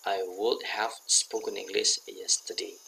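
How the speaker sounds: slow, spaced words; slow model sentence. Shown as a demonstration. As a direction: read it out slowly for students. (dibaca pelan sebagai contoh)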